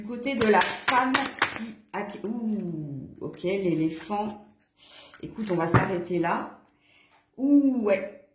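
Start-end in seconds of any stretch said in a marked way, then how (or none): 2.3-3.1 soft, long "ooh"; drawn-out "ooh". Real, not acted. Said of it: "excusez-moi pour les ouh". 7.4-7.8 long, falling "ooh" of reaction; drawn-out "ooh". Real, not acted. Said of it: "excusez-moi pour les ouh".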